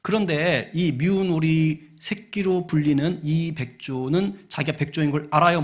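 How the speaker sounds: normal talking voice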